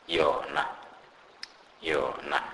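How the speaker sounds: "yona" with Y as in "yo-yo"; example word demo. Shown as a demonstration. Teacher gives an example for Y, careful "yona". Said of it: "this letter is pronounced like".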